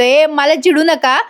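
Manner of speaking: a touch of sulky anger, drawn out; mock annoyed. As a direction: friend teased at dinner, mildly annoyed. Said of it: "लगेच धन्या चिडतो".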